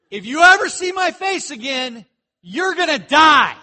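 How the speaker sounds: loud, high shout through laughter; laughing mock yell. Preacher laughing while replaying Pharaoh's death threat, loud. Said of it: "they were probably yelling at each other".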